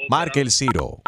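lightly done automated recording; phone menu voice. Acted. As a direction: read it like a robocall message. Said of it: "esa máquina".

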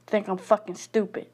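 venting fury with hard punched curses; bitter angry rant. Real, not acted. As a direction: spit out every curse at the world. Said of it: "I am so mad".

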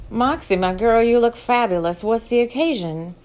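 put-on older madam, loud and welcoming; Diamond's voice. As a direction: greet her like a proud boss. Diamond voiced, warm greeting.

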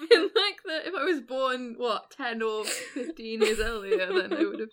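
talking through laughter; giggly, half laughing. Real, not acted.

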